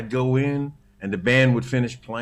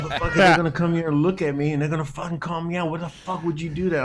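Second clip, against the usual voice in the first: upset rant; 3 semitones higher, faster than usual. Retold or imitated. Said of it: "I was so upset".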